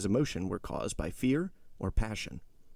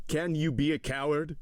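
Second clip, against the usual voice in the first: higher, heated accusation; increasing excitement; 7 semitones higher, 4 dB louder than usual. A narrator's reading. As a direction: press the challenge with mounting heat. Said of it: "continued Villefort with increasing excitement".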